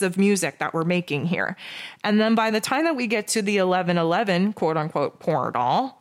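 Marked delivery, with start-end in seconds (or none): 2.0-6.0 sarcastic whiny voice. Pretend. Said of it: "again, sarcasm".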